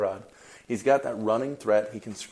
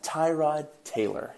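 slow, savored name with real enthusiasm; enthusiastic; 6 semitones higher, slower than usual. Real, not acted. Podcast host introduces his favorite player's interview, enthusiastic. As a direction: draw the name out like a proud fan. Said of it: "hear the enthusiasm in my voice".

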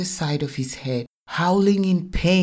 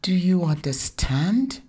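put-on higher little girl's voice, rising question; child echoing the demand; 5 semitones higher, 3 dB louder than usual. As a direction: copy mom's demand in a child's voice. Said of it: "Zainab's elocution was perfect".

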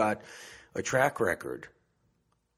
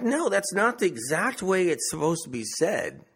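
mock corrector; 7 semitones higher than usual. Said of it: "someone's corrected me".

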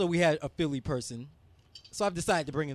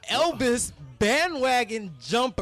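announcer voice; 5 semitones higher, 3 dB louder, slower than usual. Pretend. Host announcing guest names.

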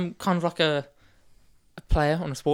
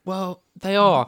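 drawn-out admission; 5 semitones higher, 5 dB louder, much slower than usual. Acted. Comic admission.

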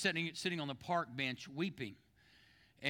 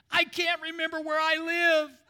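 loud, very high mock wail; hammed-up bawling punchline held on a high pitch; sobbing old gentleman; 12 semitones higher, 9 dB louder than usual. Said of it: "The old gentleman's between sobs".

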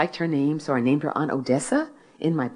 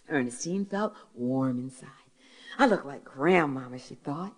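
lively storyteller reading aloud, pitched up; story reading; 7 semitones higher than usual. Acted. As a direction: read the story to a hall full of listeners. Author reads her story aloud.

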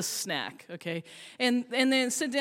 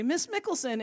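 put-on little kid calling; 6 semitones higher than usual. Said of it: "he's following me very diligently".

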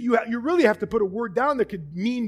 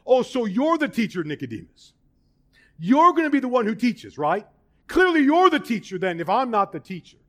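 sarcastic retort; 2 semitones higher, 4 dB louder than usual. Retold or imitated. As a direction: throw his jab right back at him. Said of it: "What's Jesus doing?".

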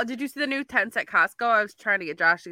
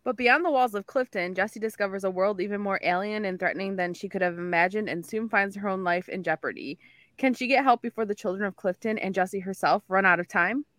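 all in one breath; 3 dB quieter than usual. Real, not acted. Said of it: "I almost ran out of air".

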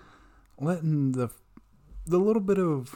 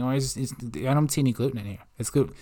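softer, stammering mock complaint; mock bitching; 7 dB quieter, faster than usual. Mimicking gluten-avoiders searching in the stores, softly mock bitching. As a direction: imitate a muttered store-aisle grumble. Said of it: "they'll bitch about these things".

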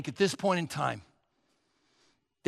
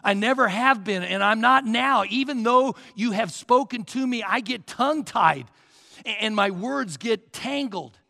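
begging Moses; 3 semitones higher, 5 dB louder than usual. Retold or imitated. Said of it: "He says, "Oh Lord".

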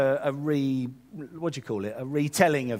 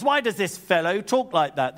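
stuck-up British theologian, raised pitch; hammed-up haughty British accent; 4 semitones higher, 3 dB louder than usual. Stuck-up theologians thinking to themselves, very British. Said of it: "They were very British".

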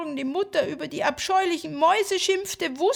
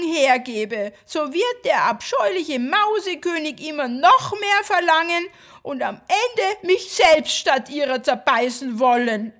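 sobbing plea; 5 semitones higher, 6 dB louder than usual. Acted.

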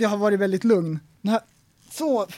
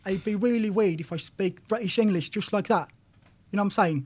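a light put-on British accent, softer; mock British English; 3 dB quieter than usual. Shown as a demonstration. Friend demos British English to podcast cohost, lightly put on. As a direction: show how weird British sounds on you. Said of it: "om jag skulle prata brittisk engelska".

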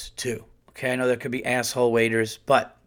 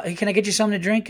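higher, very quick chirp with a fake smile; fake nice; 7 semitones higher, much faster than usual. Waitress greeting a customer she dislikes, mock fake-nice. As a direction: imitate a phony friendly server. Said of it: "comes over nice and with this fake smile".

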